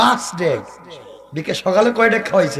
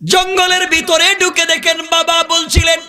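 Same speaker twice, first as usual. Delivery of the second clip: melodic preaching; 3 semitones higher than usual. Real, not acted. Preacher telling the crowd a desert tale, chanted. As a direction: chant the tale, stretching phrase endings.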